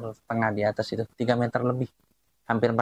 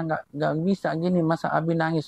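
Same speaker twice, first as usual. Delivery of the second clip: higher-pitched imitation of a complaining child; protesting child; 4 semitones higher than usual. Child scolds crying dad at the grave, imitated protesting child. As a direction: imitate a kid's indignant protest. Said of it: "Tuh pada protes tuh".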